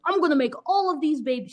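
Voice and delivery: half-hearted nanny voice; mock super nanny. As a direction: rattle it off like a take-charge nanny. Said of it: "I don't know what that was".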